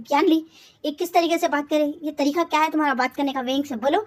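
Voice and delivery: half-acted brother's scolding; angry scolding. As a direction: tell her off for her tone. Brother scolds sister at dinner.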